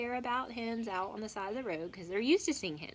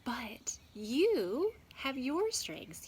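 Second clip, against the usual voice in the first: reassuring; 3 semitones higher, slower than usual. Real, not acted. Teacher encourages pupils.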